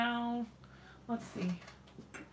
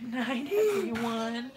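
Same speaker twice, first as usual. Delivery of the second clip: slow prompt; 3 semitones higher, slower than usual. Shown as a demonstration. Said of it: "Say goodnight".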